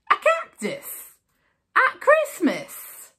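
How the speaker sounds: cried out. Acted. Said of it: "cried Mister Mouse".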